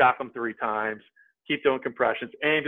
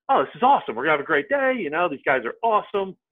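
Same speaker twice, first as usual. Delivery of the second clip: upbeat, higher-pitched recalled delight; retold excitement; 5 semitones higher than usual. Caddie recalling his delight at the foursome, upbeat. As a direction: relive being pleased with the group. Acted upbeat reaction before the round.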